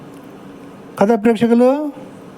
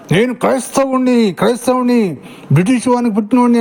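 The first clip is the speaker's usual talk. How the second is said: mock boast; 2 semitones higher than usual. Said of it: "అని మీరు రెచ్చిపోరా".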